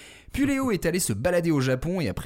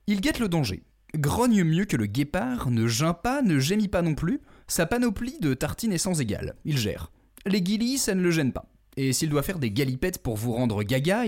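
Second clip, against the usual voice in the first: announcer intro; 2 semitones higher than usual. Acted. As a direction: introduce him like a showman. Alliterative host introduction.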